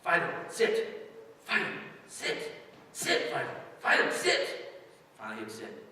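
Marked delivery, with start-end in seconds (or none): 0.0-4.7 mock dog command. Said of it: "the lady would take the dog and says".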